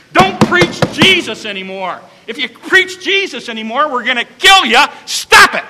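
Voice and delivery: stern leaders' warning, rising to a shout on the last words; threatening leaders. Acted. City leaders warning the church, rising to a shout. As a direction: bark the threat at the preachers.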